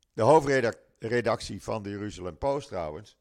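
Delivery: just before a sip of water; talking as you reach for water; while sipping a drink. Real, not acted. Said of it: "even een slokje water".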